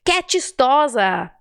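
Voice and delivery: "Que" said with a closed e, slowly. Shown as a demonstration. Teacher shows the right way to say que. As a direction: keep the e of "Que" closed, unhurried. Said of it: "não diga "que".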